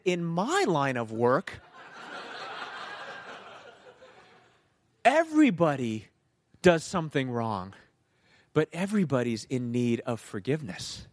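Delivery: deliberate comeback with a touch of attitude; retold attitude. Driver answering the officer back, with some attitude. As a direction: turn the officer's words back, measured. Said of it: "so much attitude".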